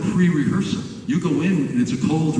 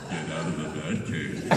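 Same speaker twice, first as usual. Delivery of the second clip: smiling take; 10 semitones lower, 10 dB quieter than usual. Shown as a demonstration. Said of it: "Can we have a smile?".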